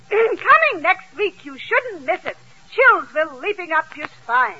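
mock trailer pitch in a Yiddish accent; movie trailer. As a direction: announce a coming attraction, Yiddish-accented. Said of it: "On the screen is showing a trailer".

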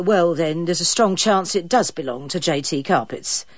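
coolly cheeky receptionist; insolent. Acted. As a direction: edge of insolence. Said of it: "poised just the right side of insolence".

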